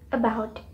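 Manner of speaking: "about" stressed on the second syllable. Shown as a demonstration. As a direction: say "a-BOUT", leaning on BOUT. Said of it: "stress syllable is pronounced".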